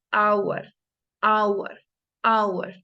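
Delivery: hour with silent h, starting on the vowel; model pronunciation. Shown as a demonstration. Teacher modeling silent h in hour for students. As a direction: say hour with no h sound. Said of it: "por ejemplo".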